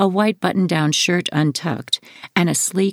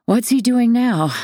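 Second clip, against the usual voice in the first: higher, louder, fed up; weary what-now after a sigh; exasperated sigh; 9 semitones higher, 4 dB louder than usual. A narrator's reading. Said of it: "on the tail of a deep sigh".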